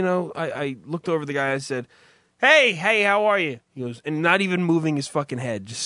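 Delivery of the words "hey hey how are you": friendly greeting. Retold or imitated. Retells greeting the mob guy.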